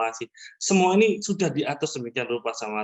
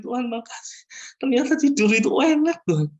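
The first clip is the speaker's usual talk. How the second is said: imitated crying prayer, high and swelling louder; tearful thanks; 10 semitones higher, 5 dB louder than usual. Testifier thanking God for sleep, mock-tearful high cry. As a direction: re-enact weeping relief, rising into a loud high cry. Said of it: "Saya nangis".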